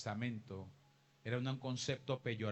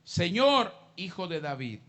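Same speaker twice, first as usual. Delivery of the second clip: crying out; 3 semitones higher, 8 dB louder than usual. Acted. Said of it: "clamaba diciéndole".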